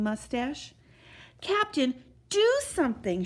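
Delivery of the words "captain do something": high, urgent plea; urgent shout. A narrator's reading. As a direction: call the captain to act. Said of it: "shouted Bartholomew".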